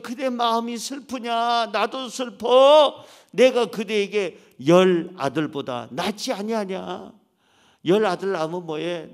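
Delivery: 느리게 안타까움을 담아; 지친 아내를 감싸듯 천천히; 안쓰러운 위로. Acted. 위로하는 남편 목소리. (지친 아내를 위로하는 안쓰러운 남편 목소리)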